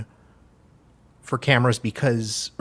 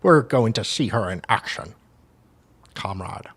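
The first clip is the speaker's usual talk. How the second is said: lightly put-on Russian accent; amateur Russian-accented reading. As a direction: read it out with a mock Russian accent. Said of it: "I'm doing a Russian accent".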